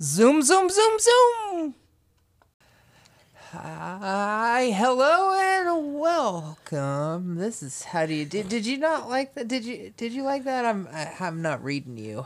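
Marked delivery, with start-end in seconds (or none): 0.0-8.4 very slow, drawn out, swooping up and down. Opening the show with a Harry Caray voice. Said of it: "Harry Carey style intro".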